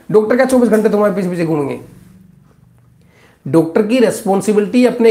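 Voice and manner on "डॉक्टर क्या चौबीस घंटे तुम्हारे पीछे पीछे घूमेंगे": fast, fed-up rhetorical question; rapid exasperated rebuke. Real, not acted. Doctor rebuking careless patients, fast and exasperated. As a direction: rattle it off, exasperated.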